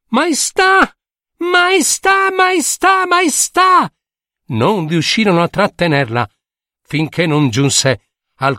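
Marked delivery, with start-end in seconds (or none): 0.1-3.9 acutissima, chiama forte da lontano; grido di vecchietta. Acted. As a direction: richiamo alto e insistente tra la folla. (la vecchietta si fa largo tra la folla: chiama il re gridando acuta)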